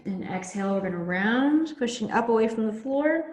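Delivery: muffled, mouth in fabric; talking into shirt. Real, not acted. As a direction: speak with mouth against shirt. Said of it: "like, talking into my shirt".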